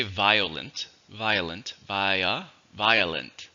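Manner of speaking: "violent" split into vi-uh-lent; three-syllable pronunciation. Shown as a demonstration. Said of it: "in which case there's three".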